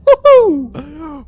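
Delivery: high joyful whoop; excited cheer. Real, not acted. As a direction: cheer the win. Mission success celebration.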